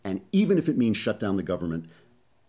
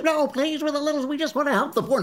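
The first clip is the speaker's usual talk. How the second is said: much higher, pleading falsetto nuns. Pretend. Nuns beg Obama in a mock falsetto plea. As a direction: beg like a frightened little nun, very high. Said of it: "nuns voiced again".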